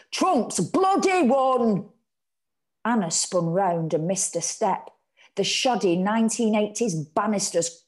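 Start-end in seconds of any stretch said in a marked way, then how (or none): 0.1-1.9 slow, higher, louder outburst; yelling. A narrator's reading. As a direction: bellow the shocking result. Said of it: "her mum yelled".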